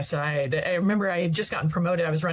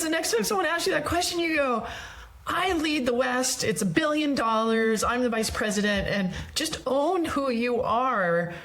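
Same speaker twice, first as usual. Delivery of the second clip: friend's firm advice; 6 semitones higher than usual. Retold or imitated. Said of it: "and he goes".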